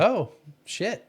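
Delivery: high, loud mock dismay; retold alarm. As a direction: act out a sudden uh-oh moment. Retells spotting police lights behind him.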